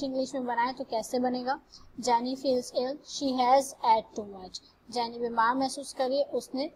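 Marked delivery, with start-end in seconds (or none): 2.0-4.6 each English word laid out very slowly for the class; slow example reading. Shown as a demonstration. Teacher reading an English example to the class, very slow and careful. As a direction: read it out word by word, like dictation to students.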